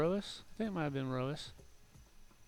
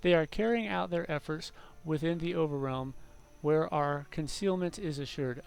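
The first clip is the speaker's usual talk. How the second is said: measured story narration; narrating in-game lore aloud; lore book reading; 2 semitones higher than usual. Acted. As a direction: read it out like a formal chronicle.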